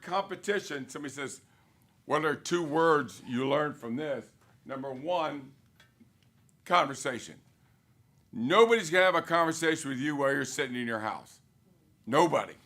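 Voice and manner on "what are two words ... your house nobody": emphatic louder. Real, not acted. Drilling key words to agents.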